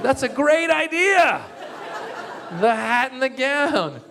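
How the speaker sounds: very high, slow, laughing forced delight; fake enthusiasm. Comic pretending to love the hat and gown, laughing. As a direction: stretch it out in strained mock glee. Forced cheerful answer to boss.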